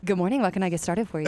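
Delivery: coffee shop counter greeting; customer service voice. Retold or imitated. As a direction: greet a customer on scripted autopilot. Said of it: "In my customer service voice, just like that".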